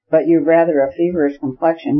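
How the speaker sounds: "feverish" given a firm, pointed weight; stress on feverish. A narrator's reading. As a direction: lean on the word feverish, rest of the line even. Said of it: "laying stress on the word feverish".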